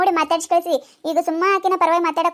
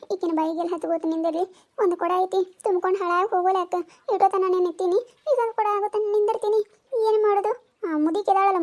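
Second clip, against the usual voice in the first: muttering threats; 4 dB quieter than usual. Acted. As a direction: mutter threats after the old woman. Woman grumbles threateningly.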